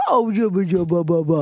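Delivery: imitating baby talk to a pet; mock pet-owner baby talk. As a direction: babble playfully like cooing over a dog. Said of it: "in your baby voice".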